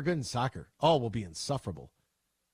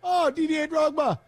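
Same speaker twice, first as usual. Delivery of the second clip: high, stretched delight; drawn-out joyful exclamation; excited recognition; 6 dB louder, slower than usual. Real, not acted. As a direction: savor the name Drogba with a big lift.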